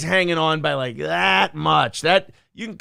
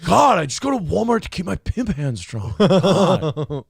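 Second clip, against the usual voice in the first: mock pimp voice.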